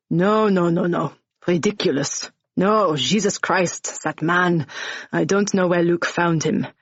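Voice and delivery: lightly voiced French-accented bar owner, exasperated; Jensen, French accent. Bar owner telling Jane and Ash about Nick, lightly French-accented and scornful.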